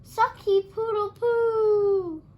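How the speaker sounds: very high, loud, slow garbled crowing; bungled crow. A narrator's reading. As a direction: try the rooster call and mangle it. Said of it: "Rupert tried again".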